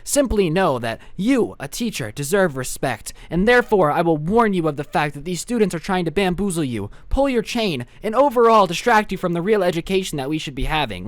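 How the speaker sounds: prim, over-formal student voice; hammed-up teacher's pet; straight-A know-it-all. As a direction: imitate a studious snitch lecturing the teacher. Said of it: "literally a straight A student".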